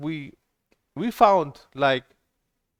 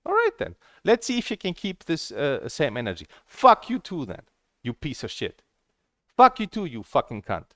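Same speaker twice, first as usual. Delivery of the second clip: retold furious rant. Retelling what she told the moderator, a furious retort. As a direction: replay the furious comeback, swinging between shouts and mutters. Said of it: "like, furious".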